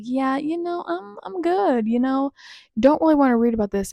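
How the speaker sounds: reluctant brush-off. Retold or imitated. Acted quote declining the book.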